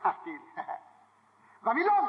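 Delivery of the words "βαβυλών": high, rising cry of the name; acted exclamation. Pointing out the group of four, exclaimed high. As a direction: call it out like a sudden discovery. Acts out sudden cry of Babylon.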